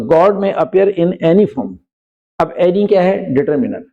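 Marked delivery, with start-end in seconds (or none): 0.1-1.8 slow, careful example sentence; dictating pace; slow example read. Shown as a demonstration. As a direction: read it out word by word for the class. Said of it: "slow example".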